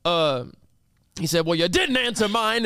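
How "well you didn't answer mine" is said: higher-pitched retort; imitating a cranky customer hitting back; mock-indignant grandpa comeback; angry old man. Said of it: "he just keeps going".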